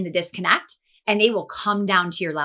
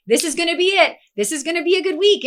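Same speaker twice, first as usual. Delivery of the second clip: upbeat pep talk; 7 semitones higher, faster than usual. Retold or imitated.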